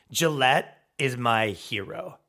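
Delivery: slow, drawn-out mock admiration; mock reverence. Fan posting about the company, mock reverent. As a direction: savour each word like a devoted fan. Acted gushing fan post.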